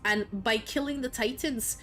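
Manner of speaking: mock Scottish accent, playful retelling. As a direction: tell the story in a put-on Scottish lilt. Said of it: "speaking with a Scottish accent if you like".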